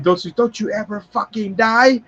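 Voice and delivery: high-pitched imitation of disbelief; acted exasperation. Acts Fun Boy exasperated at crow.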